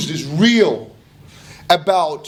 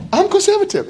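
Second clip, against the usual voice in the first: higher, louder, announcing it; mock proud declaration; 14 semitones higher, 5 dB louder than usual. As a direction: proclaim it like a badge. Same claim repeated high and loud.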